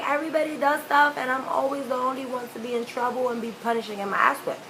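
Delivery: imitated whiny kid complaint; mock-crying run-on grievance; tearful protest. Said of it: "I'm crying".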